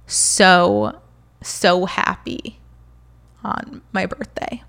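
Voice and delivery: fighting tears while getting the words out; holding back tears. Real, not acted. To viewers, remembering her birthday, holding back tears. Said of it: "trying not to cry".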